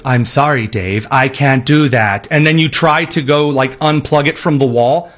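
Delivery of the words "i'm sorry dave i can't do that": robot voice. Retold or imitated. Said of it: "the robot goes".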